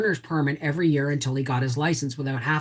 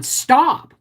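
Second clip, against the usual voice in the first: mock shout; 10 semitones higher, 6 dB louder than usual. Mother shouting at son in car.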